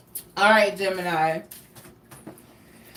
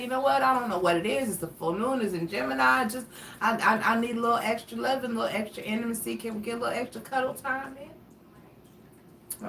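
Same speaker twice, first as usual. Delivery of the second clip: coaxing plea; 2 semitones higher, 4 dB quieter than usual. Pretend. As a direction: ask sweetly for cuddles, softer. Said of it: "Just say".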